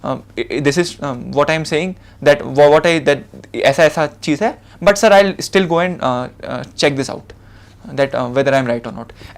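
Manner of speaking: gently backing off, unsure, very slow; polite hedging. Shown as a demonstration. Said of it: "आप ऐसा बोल दो कि".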